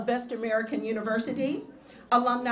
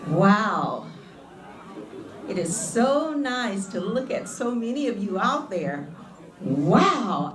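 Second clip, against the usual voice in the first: excited wow; 3 semitones lower than usual. Real, not acted. Speaker greets graduates excitedly.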